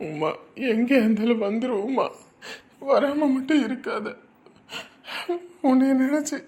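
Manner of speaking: a tearful call to his lost wife, sobbing at the end; tearful plea. Acted. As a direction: plead with her to come home, voice breaking. Husband calls out to missing wife. (கண்ணீருடன் மனைவியை அழைக்கும் குரல்)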